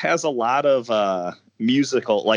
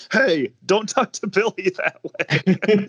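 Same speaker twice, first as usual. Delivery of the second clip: tough biker voice; 9 semitones higher, slower than usual. Retold or imitated. Voicing random biker in movie.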